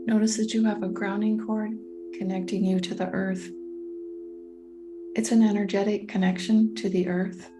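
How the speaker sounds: calm guiding voice with long, spacious pauses; guided meditation. Real, not acted. Coach guiding listeners through a meditation on patience, calm and unhurried. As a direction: lead them gently into stillness, leaving room to breathe.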